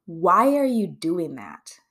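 slow, pointed, accusing question. Shown as a demonstration. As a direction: press the question like a reproach. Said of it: "can you hear that in my voice?".

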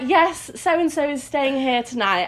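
slow, lightly posh parent voice; a hint of a posh parent on the phone. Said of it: "I used to put on this posh voice".

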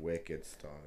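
playful Boston "wicked stawmy"; mock Boston local; Boston accent. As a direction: echo it in a put-on Boston accent. Echoing the mock Boston talk.

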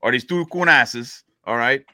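Cajun storyteller opening, names announced loud; lightly put-on Louisiana Cajun drawl; Louisiana Cajun accent. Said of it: "say it in your Louisian accent".

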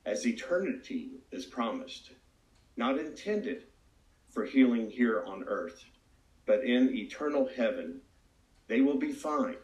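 slow, measured, solemn pronouncement; lightly voiced divine answer, unhurried; voice of God. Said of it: "But God answered and said".

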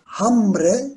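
"Hambre" with the H left silent, as "ambre". Shown as a demonstration. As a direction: start "Hambre" straight on the vowel a. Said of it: "H harfini okumuyoruz". ("Hambre" sözünde H harfini okuma)

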